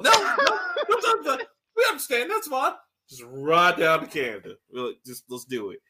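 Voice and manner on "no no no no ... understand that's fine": high laughing through the words; crying with laughter. Real, not acted. Mock boss reply, laughing.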